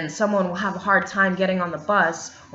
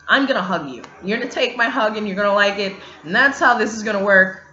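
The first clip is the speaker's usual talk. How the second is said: louder, mock-bossy hug demand; insistent demand; 7 dB louder, faster than usual. To a stranger on the bus, insisting loudly on a hug.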